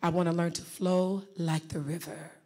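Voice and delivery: low, smooth, gliding "flow like the river". Shown as a demonstration. Coach modelling a flowing voice for a student, smooth. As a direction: let it flow like water. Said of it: "listen very carefully".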